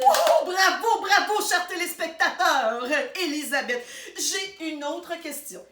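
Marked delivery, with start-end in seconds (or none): 0.1-2.9 applaud the viewers with glee; gushing bravo; delighted congratulations. Real, not acted. Congratulating viewers after the answer.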